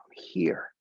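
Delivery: short whispered I'm here. Shown as a demonstration. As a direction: whisper it to yourself. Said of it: "I invite you all to come here now".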